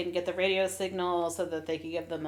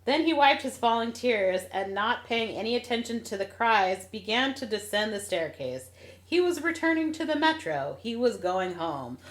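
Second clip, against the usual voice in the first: story read aloud with feeling; dramatic reading; 2 semitones higher than usual. Acted. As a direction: read it like the book's ending. Reads the book's last lines.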